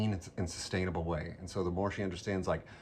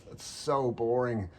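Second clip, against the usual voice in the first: bored scoff; 4 semitones higher than usual. Retold or imitated. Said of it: "And she's like".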